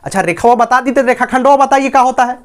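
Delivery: lightly acted eager pupil's question; mildly cocky child asking the teacher. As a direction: put a touch of a pupil's bold challenge into it. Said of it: "बच्चा बड़े ताव से पूछेगा".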